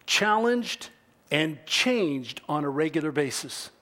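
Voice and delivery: measured quotation, drawing out key words; unhurried reading with weighted pauses; slow, deliberate reading. Real, not acted. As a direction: read it out slowly, pausing between phrases. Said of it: "I'll read it slowly".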